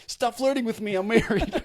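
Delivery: high, loud, cracking up on the words; laughing mock protest. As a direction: shout a joke protest through helpless laughter. Joking retort to retold compliment.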